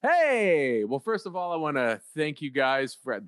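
slipping into a mild radio announcer greeting; lightly put-on radio host voice. Radio host greeting the others, mild radio voice. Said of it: "I had my radio voice on".

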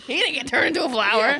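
laughing. Real, not acted. Laughing at the story.

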